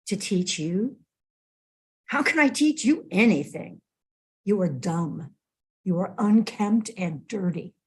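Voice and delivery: cool, measured scorn; great disdain. Acted. Calm monk scorns the hulking samurai, disdainful and unhurried. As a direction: look down on him and dismiss him. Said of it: "he says with great disdain".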